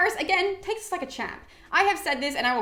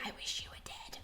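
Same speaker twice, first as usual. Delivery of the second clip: breathless, voiceless whisper, much softer; mock soft whisper; 19 dB quieter than usual. Helen whispering cruelly into Paris's ear, a voiceless mock whisper. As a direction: breathe it like a sweet nothing. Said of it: "she has ever whispered anything softly".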